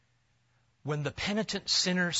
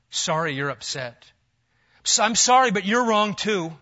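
loud, sneering fake sorry, slowing on each sorry; mocking insincere apologies; mock non-apology; 7 dB louder than usual. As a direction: ham up a string of excuses. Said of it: "Non-apology apologies".

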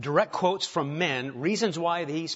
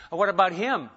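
pointing the finger; 5 semitones higher, 7 dB louder than usual. Retold or imitated. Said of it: "Nathan's finger coming out".

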